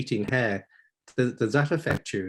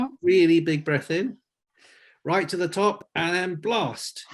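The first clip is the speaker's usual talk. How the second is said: coaching encouragement; 5 semitones higher than usual. Real, not acted. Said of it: "Can we just have one more go".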